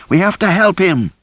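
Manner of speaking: the plea cracks upward in panic. A narrator's reading. Rosie struggling to reach David.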